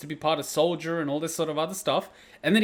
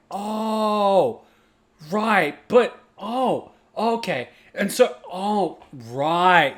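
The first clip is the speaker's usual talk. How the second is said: higher, drawn-out ohs of realisation; lightbulb moment; 3 semitones higher, much slower than usual. Retold or imitated. Player rewatching Remake with new context, lightbulb realisation. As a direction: act out it all clicking into place. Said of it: "you know those light bulb moments".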